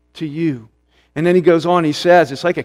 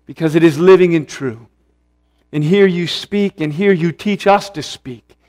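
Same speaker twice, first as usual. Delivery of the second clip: prayer; 2 semitones lower than usual. Real, not acted. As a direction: pray earnestly to the Father. Opening prayer before sermon.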